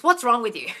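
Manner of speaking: blunt way of checking in; blunt demonstration. Shown as a demonstration. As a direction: ask it bluntly, as your own habit. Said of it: "I do it more like this".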